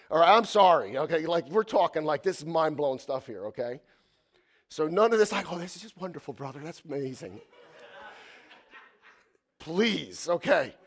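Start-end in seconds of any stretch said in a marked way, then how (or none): 5.5-7.4 flat, much softer mock enthusiasm with a laugh; a dry, quiet send-up of polite applause; mock lukewarm praise. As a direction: brush it off like an unimpressed churchgoer. Mocking a lukewarm church reaction.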